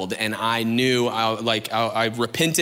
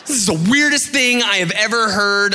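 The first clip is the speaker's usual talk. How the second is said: mock disbelief; 6 semitones higher, 4 dB louder than usual. Mock disgust at friend.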